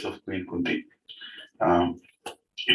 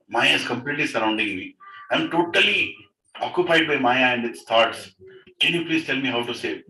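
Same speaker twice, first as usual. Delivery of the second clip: mildly acted plea, rising as it repeats; urgent pleading; 2 semitones higher than usual. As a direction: beg for help, growing more insistent. King's urgent plea to the sage.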